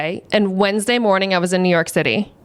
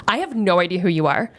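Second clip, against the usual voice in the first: deadpan admission; 2 semitones lower than usual. Retold or imitated. Camera off, drops the excited act.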